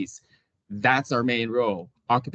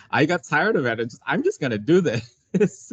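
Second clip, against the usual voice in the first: amused; 5 semitones higher than usual. Real, not acted. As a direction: say it through a real laugh. Laughs about giving up the search.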